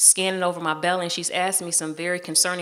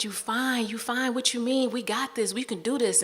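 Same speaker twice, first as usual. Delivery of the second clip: higher-pitched sister's reassurance; encouraging; 5 semitones higher than usual. Retold or imitated. Sister urging pregnant woman she can do this, encouraging. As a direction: reassure her in a lifted, insistent voice. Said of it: "she was just trying to encourage me".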